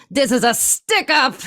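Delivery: put-on old movie mobster barking at the room; gangster announcing. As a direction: robber to the customers, menacing.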